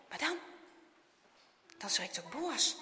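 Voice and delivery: plain reading voice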